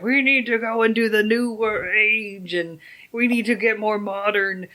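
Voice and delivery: lightly voiced evil scientist; a hint of a scheming mad scientist. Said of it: "This is the evil scientist voice".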